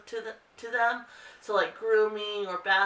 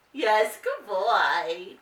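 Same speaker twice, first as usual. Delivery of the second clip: slow praise; 4 dB louder, much slower than usual. Real, not acted. Owner praising her dog Marley, slow drawn praise.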